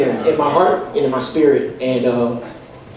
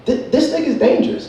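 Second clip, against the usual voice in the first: awed mock alarm; 9 semitones higher than usual. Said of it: "but I was just like".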